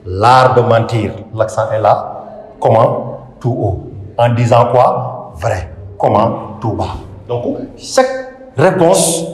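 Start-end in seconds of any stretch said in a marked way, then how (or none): 0.0-1.1 slow, low answer "L'art de mentir", falling at the end; measured verse phrase, then stop; question and answer. Shown as a demonstration. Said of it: "une forme de question et de réponse". 2.6-7.0 teacher's measured self-answered drill; question and answer. Shown as a demonstration. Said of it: "une forme de question et de réponse".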